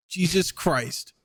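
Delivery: slow, drawn-out muttered amazement; stunned dad. Retold or imitated. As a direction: imitate a man taken aback, stretching the words. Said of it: "he just goes".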